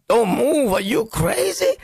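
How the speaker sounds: parent scolding that climbs high; mock scolding. Parent ordering jumping kid to stay still, mock scolding. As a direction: start firm and shoot up high on the question.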